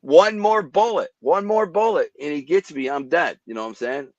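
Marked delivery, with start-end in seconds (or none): 0.0-2.1 "One more bullet" drawn out slowly, high and loud; emphatic repeat. Real, not acted. Stressing to hosts how close he came, slow emphatic repeat.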